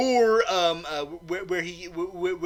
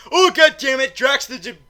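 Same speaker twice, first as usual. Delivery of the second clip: loud, high outburst; acted exasperation; 7 semitones higher, 9 dB louder than usual. Train passengers interrupted by Drax, mock exasperated outburst. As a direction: burst out in mock annoyance. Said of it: "they're like".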